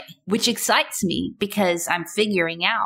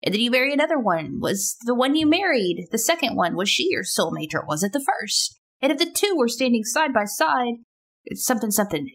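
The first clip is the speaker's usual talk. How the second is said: put-on higher, fretting young prince in a panic; agonized young prince; 6 semitones higher than usual. To the older man, a lightly voiced anxious prince. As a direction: fret over soulmates like a lovesick young prince. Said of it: "he's saying to this older man".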